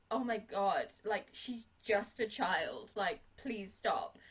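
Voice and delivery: pleading. Retold or imitated. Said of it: "Hannigan is like".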